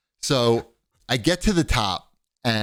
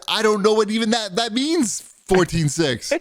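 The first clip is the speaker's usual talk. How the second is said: confused; 11 semitones higher than usual. Retold or imitated. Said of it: "and I said".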